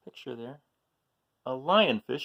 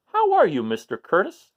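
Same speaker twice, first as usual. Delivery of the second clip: excited greeting; 7 semitones higher, 10 dB louder than usual. A narrator's reading. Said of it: "asked Mister Seahorse".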